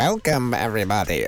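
cheesy DJ welcome, rising on welcome; eighties DJ voice. Retold or imitated. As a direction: hype it up like an old radio DJ. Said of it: "it sounded like an eighties D J".

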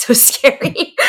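choked up on the verge of crying; holding back tears. Real, not acted. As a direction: voice breaking, fighting tears. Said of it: "I'm trying not to cry".

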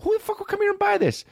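high, fast, squeaky outrage; squealing disbelief. Retold or imitated. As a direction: shriek at how ridiculous the hat is. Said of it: "I was with my roommate".

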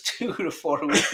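giggling through the words; can't keep a straight face; laughing. Shown as a demonstration. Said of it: "I can't even say with a straight face".

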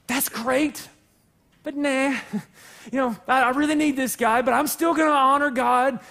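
breezy mock farmer talking himself out of it; mock farmer excuse. Farmer explaining to God why he brings the bad sheep, breezy mock excuses. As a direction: shrug it off with cheerful excuses. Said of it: "He's going".

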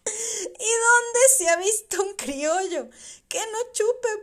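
loud scoffing with laughs; mocking laughter. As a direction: ridicule him for refusing a drink. Drinker mocks Julián for refusing.

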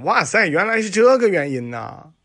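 put-on like a kid who just cracked a big secret; sudden realization. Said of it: "豁然开朗".

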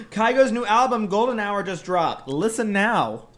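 hyped radio ad read; ad announcer voice. Pretend. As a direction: announce it like a streaming ad. Mock ad announcement.

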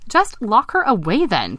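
high, slow little frog; piping up. Acted. Vince chiming in with a fairy-tale fix, piping up. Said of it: "piped up Vince".

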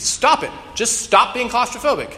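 high, loud comic scolding; exasperated yell. Acted. Therapist yells at claustrophobic patient, high exasperated yell. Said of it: "he just yells at her".

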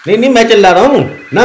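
rattled off quickly, mocking; नहीं, नहीं, मैं चिल्ला रहा हूँ ना rushed and sarcastic; fast sarcastic denial. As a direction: fire back the denial at speed. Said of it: "आप इतना चिल्ला क्यों रहे हैं".

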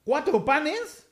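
quiz show host. Pretend. Host checks the question with contestant, slow mock suspense.

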